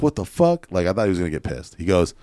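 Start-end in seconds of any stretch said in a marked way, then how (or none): 0.0-0.7 high-pitched mock outrage; imagined angry outburst. Friend imagined finding out about the profit, high mock outrage. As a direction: play the friend blowing up in disbelief. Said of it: "his reaction was gonna be like".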